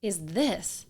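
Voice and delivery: high, loud, stretched-out disbelief; a stunned wife yelling at a message she has just read; shocked outburst. Retold or imitated. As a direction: blurt it out like you can't believe the message. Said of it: "I'm like".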